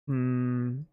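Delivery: ordinary talk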